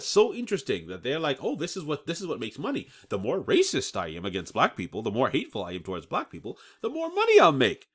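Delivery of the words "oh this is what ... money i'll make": mock greedy netizen. Voicing racist netizens' thinking.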